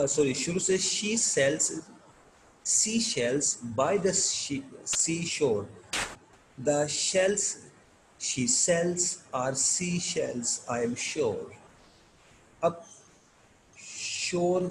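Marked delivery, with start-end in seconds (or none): 0.8-11.5 "she sells sea shells" slowly, halting between phrases; careful tongue-twister reading. Shown as a demonstration. Teacher reading the second line for learners, careful tongue-twister delivery. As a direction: pick through S and SH in "shells" and "seashore", pausing often. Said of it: "second line پڑھ رہا ہوں".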